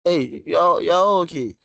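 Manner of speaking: high, loud incredulous check-in; loud surprise. Real, not acted. Teacher to a class with no questions, loudly surprised. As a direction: call out in disbelief to the whole group.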